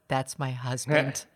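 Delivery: slow, laughing admission; retold through a laugh. Client admitting it's her husband, laughing. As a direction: let a laugh leak through the quote. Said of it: "And she said".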